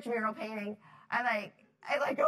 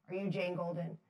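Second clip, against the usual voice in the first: very serious man; 4 semitones lower than usual. Retold or imitated. Suited stranger questions painter on scaffolding, imitated as very serious. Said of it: "and he's very serious".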